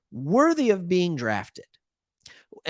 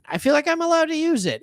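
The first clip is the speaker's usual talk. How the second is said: higher, fast, playful repeat of allowed; squeaky mock repeat; 12 semitones higher, 3 dB louder, faster than usual. Host justifying his accent to viewers, higher and faster. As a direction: bounce up into a mock high voice on allowed. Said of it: "The accent came out".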